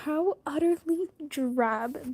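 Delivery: slow, haughty and disdainful; snooty cartoon voice. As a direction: sniff at it like a spoiled cartoon aristocrat. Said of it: "That sounds like a snooty character in".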